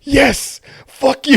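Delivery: high, loud triumphant jeer; gloating cheer. Retold or imitated. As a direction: crow over the prank backfiring. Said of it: "and you're like".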